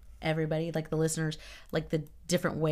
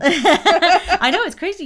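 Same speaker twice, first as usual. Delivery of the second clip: high-pitched words through real laughter; laughing hard; 13 semitones higher, 12 dB louder, slower than usual. Real, not acted. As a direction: talk while cracking up. Cracking up at friend's joke.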